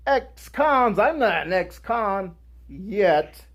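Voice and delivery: mock offence at being called a con; incredulous. Told about the ex-con program, mock-offended disbelief.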